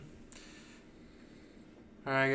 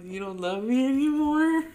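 put-on much higher and louder, wailing child voice; whiny little kid; 11 semitones higher, 9 dB louder than usual. Nephew upset his mom loves a soccer star, loud high child wail. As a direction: wail it like a hurt toddler. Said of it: "He's just like".

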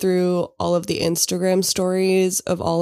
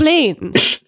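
mock French accent; hammy offended French voice; french chef; 9 semitones higher than usual. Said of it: "Are you, are you still Felix?".

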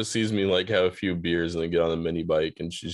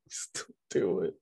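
tag; 6 dB quieter than usual. Retold or imitated. Second speaker echoes sister's words.

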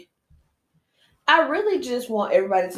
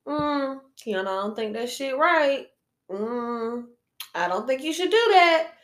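a hint of a disapproving parent, higher; lightly voiced parent's warning; mock disapproving parent; 5 semitones higher than usual.

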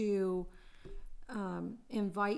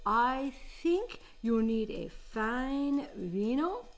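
put-on Italian accent; 3 semitones higher, 3 dB louder than usual. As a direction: preach about sauce like an excitable Italian cook. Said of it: "game of accent improv".

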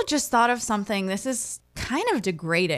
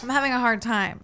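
laughing through real disgust. Real, not acted. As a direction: laugh while trying not to gag. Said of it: "My eyes are watering".

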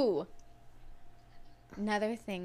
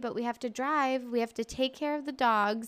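apologetic pleading; 5 semitones higher than usual. Retold or imitated. Her apology to relatives voiced.

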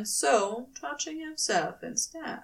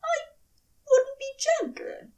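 high, unvoiced, tearful whisper; tearful admission. A narrator's reading. Angel admitting to his lover in a tearful whisper. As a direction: confess it in a broken whisper. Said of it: "he admitted".

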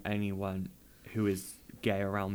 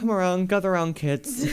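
put-on high, loud storyteller call to kids; story time host; 8 semitones higher, 4 dB louder than usual. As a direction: summon the children for story time. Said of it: "Little story time with Callum".

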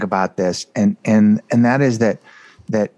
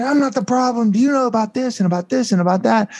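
retold anger; 14 semitones higher than usual. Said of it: "And I got all angry".

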